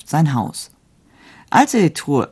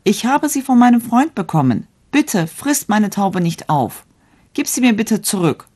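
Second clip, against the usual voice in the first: pleading; 7 semitones higher than usual. A narrator's reading. Young man begging the wild wolf for his dove, high pleading. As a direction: beg the wolf to spare the dove. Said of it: "Da flehte der junge Mann".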